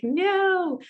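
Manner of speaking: high, drawn-out mock dismay; retold alarmed no. Answering neighbor about rain in the Jeep, high retold dismay. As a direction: jump way up in pitch on the refusal.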